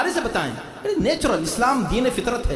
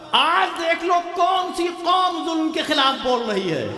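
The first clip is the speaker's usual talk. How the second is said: high, drawn-out oratorical call; slow, high-pitched impassioned proclamation; rousing preacher's cry; 8 semitones higher, slower than usual. Real, not acted. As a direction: lift it high and stretch it out to the crowd. Repeats phrase as rousing cry.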